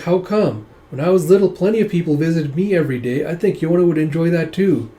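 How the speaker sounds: put-on little boy voice. Young boy questions his uncle, innocent child voice. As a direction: ask like a puzzled little boy.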